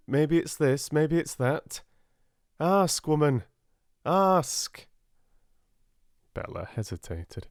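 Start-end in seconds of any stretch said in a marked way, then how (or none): 0.1-0.9 mocking women. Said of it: "They go off into corners and think". 0.9-1.8 mocking women. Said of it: "They go off into corners and think". 2.6-4.9 raised, exasperated man lecturing; a hint of an exasperated father; exasperated Finn.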